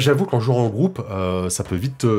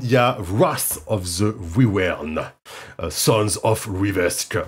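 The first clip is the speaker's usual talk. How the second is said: big, deep, booming, dramatic voice; 3 semitones lower than usual. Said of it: "Faut le dire avec une grosse voix".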